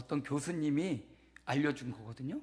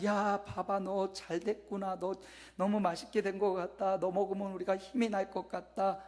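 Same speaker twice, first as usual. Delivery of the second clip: gedehntes, leicht gespieltes Lob; lobend; 4 semitones higher than usual. Retold or imitated. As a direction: den Reis bewundernd loben, nur angedeutet. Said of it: "막 칭찬을".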